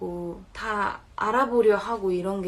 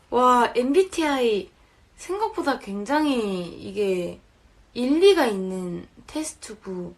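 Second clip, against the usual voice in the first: impressed; 6 dB louder, slower than usual. Real, not acted. Impressed by the test.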